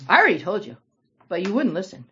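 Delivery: mock them gently as you ask; a touch of sarcasm. Healed man needling the Pharisees, a touch of sarcasm. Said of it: "replied with a touch of sarcasm".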